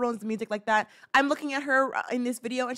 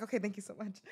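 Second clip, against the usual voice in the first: soft, much quieter teary thanks; mock sobbing thanks; 13 dB quieter than usual. After her idol says no, a mock-crying polite thanks. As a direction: whimper the thank you.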